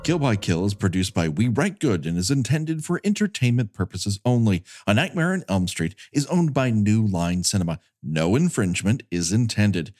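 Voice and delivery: brisk, even credits read; fast legal disclaimer. Acted. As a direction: rattle off the disclaimer quickly. Reads end credits disclaimer.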